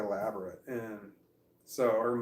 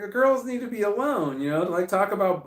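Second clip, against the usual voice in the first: mock parental advice; 9 semitones higher, 7 dB louder than usual. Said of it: "And I'm like".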